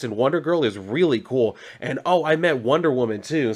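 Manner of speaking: high, gushing rush of news; a kid spilling everything to his butler at once; excited kid. Retold or imitated. Boy bursting with news for Alfred, excited and high. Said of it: "he's all jacked up, he's excited".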